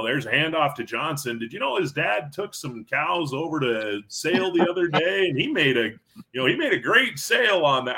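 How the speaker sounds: lightly voiced farmer on the microphone, gossiping between plays; folksy small-town announcer. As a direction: imitate an old farmer calling the game over the mic. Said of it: "He'd be like".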